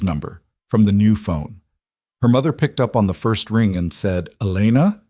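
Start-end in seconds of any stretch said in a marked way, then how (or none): 4.4-5.0 close to a sob. Acted. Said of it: "two breaths short of a sob".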